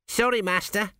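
high, bright lad answering his master; chirpy apology; the apprentice apologising brightly to his master; eager young apprentice. A narrator's reading.

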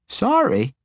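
high-pitched, astonished query; startled old wizard. Acted. Old wizard hears his friend apologise, startled and high. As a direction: echo it in high-pitched surprise.

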